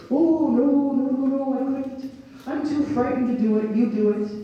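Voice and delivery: high, fretful character voice; timid refusal. A narrator's reading. Larry begging Dottie to knock instead, high and frightened. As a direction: back away from it in a high voice.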